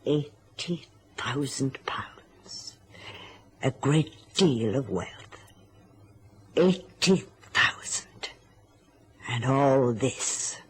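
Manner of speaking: slow, drawn-out words with long pauses; savouring the sum. Acted. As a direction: weigh each word of the figure. Dwelling on a large inheritance.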